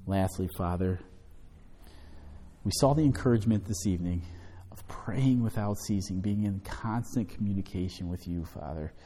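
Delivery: earnest, hushed closing prayer. Acted. Pastor prays for the congregation after the study, hushed and earnest.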